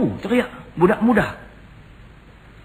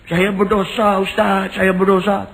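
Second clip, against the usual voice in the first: retold crying; 10 semitones higher, 5 dB louder, slower than usual. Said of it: "Teriak, hui".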